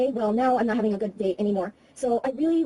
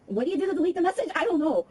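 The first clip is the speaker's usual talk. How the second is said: flustered; 7 semitones higher than usual. Real, not acted. Flustered by voicemail menu.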